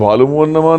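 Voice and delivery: وَاعْلَمُوا أَنَّمَا quick, without lengthening; no madd. Retold or imitated. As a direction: run وَاعْلَمُوا أَنَّمَا together with short vowels. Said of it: "مد بھی نہیں کرتے". (وَاعْلَمُوا أَنَّمَا بغیر مد، تیزی سے)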